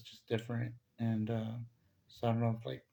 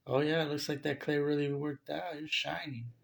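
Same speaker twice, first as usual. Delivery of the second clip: higher-pitched, teasing compliment; playful compliment; 4 semitones higher than usual. Retold or imitated. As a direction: lay on a compliment in a raised voice. Acted greeting compliment to the woman.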